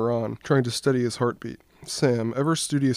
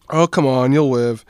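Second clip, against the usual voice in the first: teasing; 7 dB louder than usual. Acted. Ron teasing Dan.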